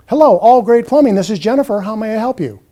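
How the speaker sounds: polite receptionist greeting; scripted phone greeting. Shown as a demonstration. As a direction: greet the caller politely by name. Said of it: "A scripted call would sound something like this".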